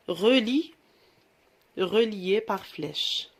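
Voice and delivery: slow, drawn-out instruction. Shown as a demonstration. Teacher explaining the exercise to pupils, slowly. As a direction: stretch it so the class follows. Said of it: "يعني اربط بسهم".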